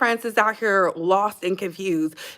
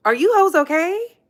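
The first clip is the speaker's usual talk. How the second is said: much higher, louder disbelieving jab; incredulous; 8 semitones higher, 4 dB louder than usual. Retold or imitated. Mocking her critics in disbelief, incredulous. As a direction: ask it like you can't believe them.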